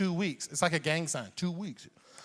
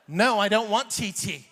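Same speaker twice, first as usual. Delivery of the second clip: mock kid protest; 4 semitones higher, 5 dB louder than usual. Six-year-old refusing tea.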